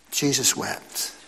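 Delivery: whispered, slow and reverent; hushed whisper. Acted. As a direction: breathe it like a sacred secret. Quoting scripture, hushed and reverent.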